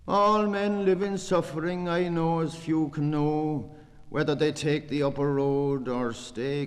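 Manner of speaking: high, loud lament; impassioned declaiming. Acted. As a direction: call the lines out with passion.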